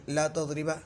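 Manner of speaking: ला तुदरिबा with a final short "a"; wrong -a ending. Shown as a demonstration. Teacher showing a wrong ending, तुदरिबा voiced with final "a". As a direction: end तुदरिबा on an open "a" vowel. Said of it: "नहीं बोलेंगे".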